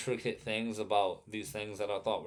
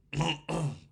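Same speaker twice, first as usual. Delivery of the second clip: throat clearing; 9 semitones higher, 5 dB louder than usual. Real, not acted. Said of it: "I got really bad heartburn".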